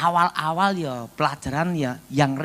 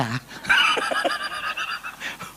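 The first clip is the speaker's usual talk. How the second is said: imitated dying noise; 3 dB quieter than usual. Mimics man dying during deliverance.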